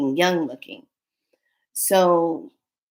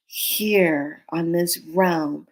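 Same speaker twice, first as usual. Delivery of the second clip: slow, measured banishing command; slower than usual. Retold or imitated. Telling the creature again, slow stern command. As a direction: lay down the law slowly and firmly. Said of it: "told it again".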